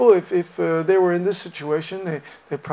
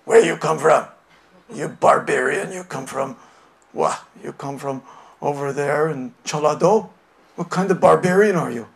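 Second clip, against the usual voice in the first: a louder, strict elder talking down; stern elder questioning where you come from; 3 semitones lower, 4 dB louder than usual. Retold or imitated. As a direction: scold like an older person shaming a youngster. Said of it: "the person talks to you strictly".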